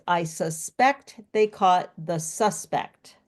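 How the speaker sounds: slow, stressing each SUSpect and susPECT; "suspect" as verb then noun, stress shifting; stress demo. Shown as a demonstration. Teacher to learners, slowly contrasting suspect stress. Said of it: "my favorite one is".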